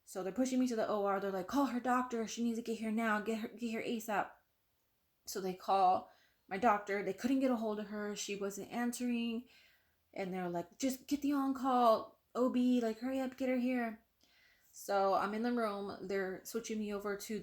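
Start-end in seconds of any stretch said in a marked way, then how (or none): 1.5-4.3 mildly urgent, slightly raised pitch; retold urgent orders. Staff urgently summoning her doctor. 10.8-14.0 higher, mildly urgent imitation; retold urgent orders. Staff urgently calling on-call doctor.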